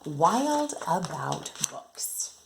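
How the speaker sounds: slow, announcing the book title; title read aloud. Acted. Teacher announcing the picture book title to her class, slow and clear. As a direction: present the title slowly to the kids.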